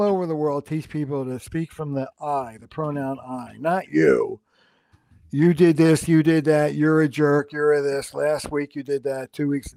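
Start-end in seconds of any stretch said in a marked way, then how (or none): 5.3-9.7 blaming quote. Shown as a demonstration. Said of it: "no, we don't want that".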